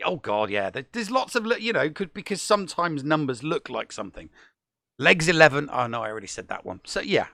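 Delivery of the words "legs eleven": loud, sing-song bingo call; bingo caller. Retold or imitated. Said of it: "That's a bingo call".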